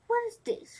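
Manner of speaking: put-on high, lilting question of a blind old woman; curious old woman. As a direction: wonder aloud at the stranger.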